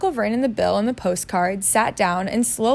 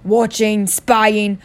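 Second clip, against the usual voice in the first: louder, agitated uncle; wild muttering; 5 dB louder, slower than usual. Acted. Uncle fears they are spied on, wild muttering. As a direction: mutter it forcefully to yourself, a touch wild. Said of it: "muttered Uncle Vernon wildly".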